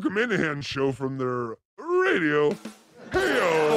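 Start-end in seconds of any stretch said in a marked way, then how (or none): 3.1-3.8 put-on Boston accent. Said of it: "That's a Boston accent".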